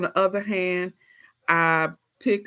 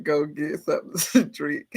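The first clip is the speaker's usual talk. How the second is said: ordinary talk, nothing marked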